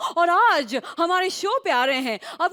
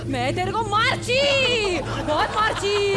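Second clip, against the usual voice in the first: Manjulika act. Acted. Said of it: "Gujarati Manjulika".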